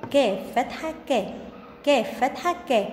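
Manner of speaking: "كا" snapped off as a quick short ka; short vowel demo. Shown as a demonstration. Teacher showing first graders short vowels, "كا" said quickly. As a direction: chant "كاف فتحة", then a very brief "كا". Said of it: "شفتوا أنا بنطقها بسرعة إزاي؟".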